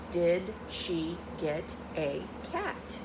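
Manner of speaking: slow question, rising at the end on cat; reading aloud to a child, slow and clear. Shown as a demonstration. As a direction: read it slowly, lifting at cat. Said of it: "your voice goes up a little".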